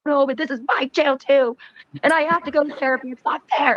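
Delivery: high-pitched mock whine; retold protest. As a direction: complain like you're hard done by. Retold protest to jailed partner.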